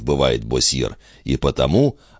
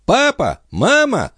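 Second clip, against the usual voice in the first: put-on high little boy's voice calling out; small boy calling; slower than usual. A narrator's reading. Little son calling parents from the stairwell, high childish. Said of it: "раздавалось всё ближе".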